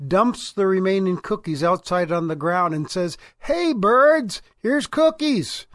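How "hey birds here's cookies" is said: high, slow sing-song call; calling out to birds. Acted. Frog dumps cookies for birds.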